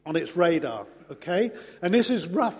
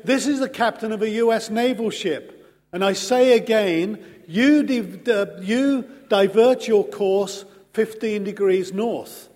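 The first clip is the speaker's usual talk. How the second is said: rising, insistent retold captain's demand, somewhat louder; getting louder; 3 dB louder than usual. Navy captain ordering the Canadian voice to divert, growing louder. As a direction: press the order harder each phrase, mock naval command. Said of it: "was getting louder".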